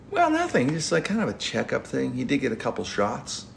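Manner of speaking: innocent reply. Retold or imitated. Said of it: "I go".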